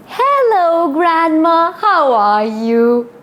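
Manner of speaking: put-on high, sweet little girl's greeting; Red's sweet voice. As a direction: greet grandma brightly and innocently. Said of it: "she said".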